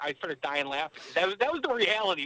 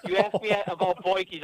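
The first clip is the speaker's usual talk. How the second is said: laughing; 2 semitones higher, 5 dB louder than usual. Real, not acted. Joking about hanging up.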